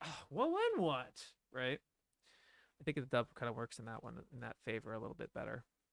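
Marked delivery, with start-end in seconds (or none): 0.0-1.1 frazzled, stressed, condescending, high and slow. Comparing a dubbed character's line, mimicking a stressed, condescending tone. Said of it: "he's a little more like stressed and a little condescending. He's more like".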